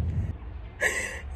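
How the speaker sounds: soft voiceless laugh; breathy laugh. Real, not acted. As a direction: let out a quiet, airy chuckle. Breaks off while walking.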